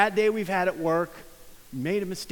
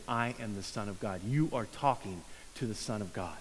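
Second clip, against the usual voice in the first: hushed Jesus voice; 8 semitones lower, 8 dB quieter than usual. Pretend. Jesus speaking to healed man.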